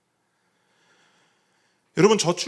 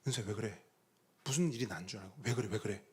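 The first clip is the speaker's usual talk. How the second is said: gentle concern; 4 semitones lower, 9 dB quieter, faster than usual. Retold or imitated. Father comforting crying daughter at night.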